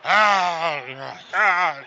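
loud, strained battle yell; Warrior impression. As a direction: yell like a roaring wrestler. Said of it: "that's my Warrior impression".

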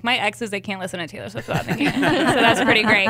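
quick words breaking into a laugh. Real, not acted. Joking to cohosts about her exes, laughing. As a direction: laugh through the joke, a bit rushed.

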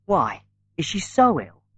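a mildly sharp, quick worried question. A narrator's reading. Paul questioning his sister about mother, mildly sharp. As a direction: cut in with a hint of sharpness. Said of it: "asked Paul sharply".

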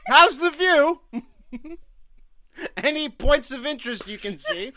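high, loud cheeky mock guide; mock tour guide. Host joins the joke as a chirpy guide, high and loud. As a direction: play a chirpy guide at the view.

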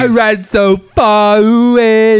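put-on slow stretched sung line in a British accent; mock British singer. Cohost sings the line again in a British accent. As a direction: sing it slowly with a British accent. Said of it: "you just hate people with accents".

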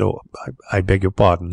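stumble, then apologise stiffly; stiff apology. A narrator's reading. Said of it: "he concluded stiffly".

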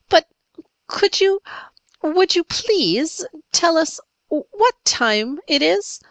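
put-on high-pitched, halting little girl; timid. A narrator's reading. Little Polly asks the pirates the time, timidly. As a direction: ask politely and timidly, pitched well up, with small pauses. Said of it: "said Polly timidly, but drawing".

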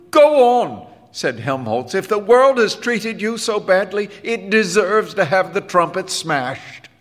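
very high, loud challenge; fierce dare. A narrator's reading. Bandleader daring the boy to smash his trumpet, high and loud. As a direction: hurl the dare at him.

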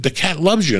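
high sweet voice of a doting owner; mock-high doting owner; owner's voice. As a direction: coo it like a proud pet owner. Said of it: "the owners would go".

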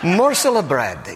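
slow, playful mock Irish accent. Shown as a demonstration. Preacher shows how he hears the verse, Irish accent. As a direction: draw it out in a put-on Irish accent. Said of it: "I hear that in an Irish accent".

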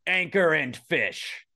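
slow, grand restaurant announcement; upscale restaurant name. Pretend. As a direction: present it like a fancy establishment. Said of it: "like, an upscale, like, restaurant".

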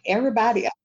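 high, loud, laughing complaint. Real, not acted. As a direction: gush through laughter. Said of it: "I thought it was an injustice".

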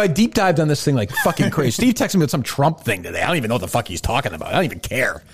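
usual speaking voice

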